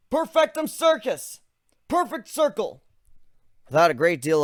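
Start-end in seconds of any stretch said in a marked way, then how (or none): 0.1-2.8 slow spell incantation. Acted. Casting a spell aloud.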